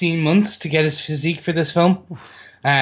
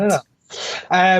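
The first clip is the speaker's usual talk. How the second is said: Ned Flanders voice; 3 semitones higher, slower than usual. Retold or imitated. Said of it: "felt like Ned Flanders".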